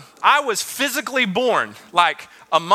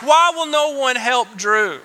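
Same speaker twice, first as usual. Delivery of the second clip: put-on childish plea; 5 semitones higher than usual. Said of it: "and I'm like".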